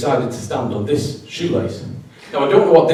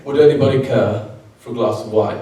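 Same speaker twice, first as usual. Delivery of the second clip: put-on posh waiter's voice, slightly lower; posh accent; 4 semitones lower than usual. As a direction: offer it in your most posh accent. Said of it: "I say in my most posh voice".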